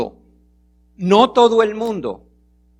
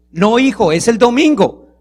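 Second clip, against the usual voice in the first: firm father reply; 3 semitones higher, 5 dB louder than usual. Retold or imitated. Father answers again, firmer.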